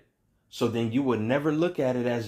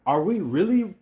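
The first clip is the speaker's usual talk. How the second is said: fired-up preaching; 10 semitones higher than usual. Real, not acted. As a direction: lift it up hard and quick. Preacher building to a peak.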